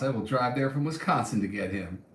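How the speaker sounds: put-on light Southern US accent. Vlogger reading a viewer's comment, slight southern accent. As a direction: read it with a hint of a southern twang. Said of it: "I just gave you a southern accent".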